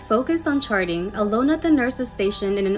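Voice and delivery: measured reading with rising phrase openings; story narration. A narrator's reading. Host reading a nurse's night shift tale, story narration. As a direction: read the spooky story aloud to listeners. Reads next submitted story.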